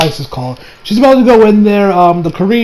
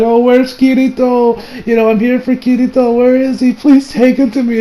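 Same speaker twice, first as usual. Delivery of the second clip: mildly acted tearful pleading, higher pitch; a touch of crying, raised voice; tearful plea; 5 semitones higher than usual. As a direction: imitate her pleading through tears. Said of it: "And she's crying".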